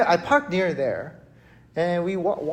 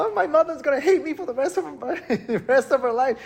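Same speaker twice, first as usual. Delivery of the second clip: mock freak-out; 7 semitones higher, faster than usual. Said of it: "I was freaking out".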